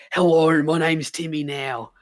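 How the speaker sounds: lightly put-on character accent, stretched vowels; slowing into a broad character greeting; Timmy. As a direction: introduce yourself in a drawn-out character voice. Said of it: "one of my favourite voice I did for a character".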